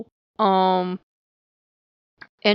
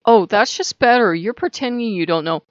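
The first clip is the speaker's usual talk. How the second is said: huffy; 4 dB louder than usual. Retold or imitated. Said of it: "he's huffed up and offended".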